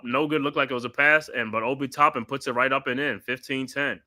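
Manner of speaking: steady broadcast play-by-play, calling each pass. Acted. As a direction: call the game like a TV announcer. Live play-by-play call.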